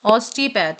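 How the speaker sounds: "ऑस्टियोपैथ" said as OS-tee-path, without the o; pronunciation demo. Shown as a demonstration. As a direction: model "ऑस्टियोपैथ" with "osti", not "ostio". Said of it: "इसे हम ऑस्टियो नहीं पढ़ेंगे".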